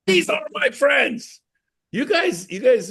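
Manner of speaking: exasperated appeal. Real, not acted. To the audience about treating friends, high exasperated appeal. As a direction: plead with the crowd.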